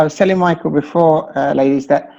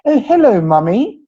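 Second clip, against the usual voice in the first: much higher, louder mock posh child; posh little girl; 6 semitones higher, 3 dB louder than usual. Father imitating his daughter greeting mummy poshly. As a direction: squeak it like a posh toddler. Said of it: "she said".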